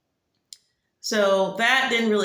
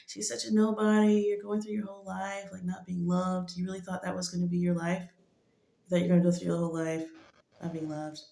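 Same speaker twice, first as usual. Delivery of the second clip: trash talking; 5 dB quieter than usual. Acted. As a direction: tease like a playful trash-talker. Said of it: "aggressively trash talking me".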